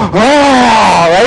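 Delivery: a big hammed-up relieved sigh; mock sigh of relief. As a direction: let it all out in one relieved breath. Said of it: "the biggest sigh you've ever had".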